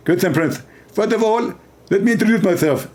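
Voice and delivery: a light parody of a preacher's lecturing voice; half-hearted preacher impression; mock Zakir Naik. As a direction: play a pompous debater, lightly. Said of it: "He speak like this".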